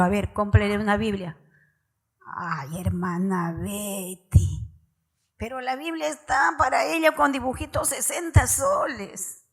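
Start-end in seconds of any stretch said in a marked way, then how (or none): 2.4-9.4 whiny, higher put-on voice of a stingy parent; mocking parent excuse. A parent whining to the sister about the Bible's cost, higher mock voice. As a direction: mimic a parent pleading about the price.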